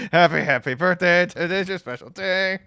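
high chirpy birthday greeting; sing-song like a restaurant waiter. Pretend. Restaurant staff singing to guest.

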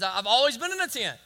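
a touch of mock indignation, fast; indignant God. Preacher voicing God rebuking David, mildly indignant. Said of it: "in other words".

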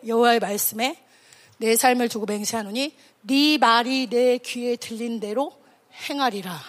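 low, measured divine pronouncement; calm, not angry. Acted. God answering the grumbling Israelites, calm and low. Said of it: "크게 화도 안 내".

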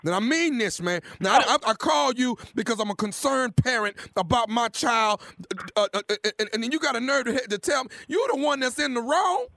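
mock angry parent. Prank caller plays angry parent.

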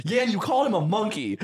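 high, amused imitation of protest; mock-shout an accusation at a teammate; mock indignant shout. Friend retelling Yingling's retort to Yan, mock indignant shout. Retold argument between gaming friends.

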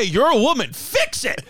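high-pitched mock yell, pitch leaping on the last words; retold yell. Retelling a friend's comeback to the MC, high mock yell. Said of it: "he just kept yelling".

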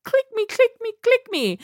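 high, pleading click me; mock clickbait plea. Mocking a clickbait thumbnail, high pleading.

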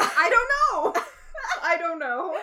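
deflated, giving-up "I don't know"; mild imitation of a defeated shrug. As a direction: say it like you've given up. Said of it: "I said it so defeated".

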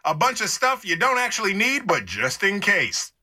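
lightly voiced store PA announcer; a casual in-store ad read; store loudspeaker announcer. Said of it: "just something to get the customer's attention".

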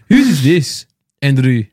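laughing through a mock Northern Irish accent, slow. Joking to the co-host, laughing in a mock Northern Irish accent. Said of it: "Northern Irish".

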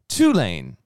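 put-on loud "Tulane" in a teasing Memphis accent; imitated Memphis accent. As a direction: punch out "Tulane" loudly, mimicking the co-host's accent. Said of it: "it's just your accent, man".

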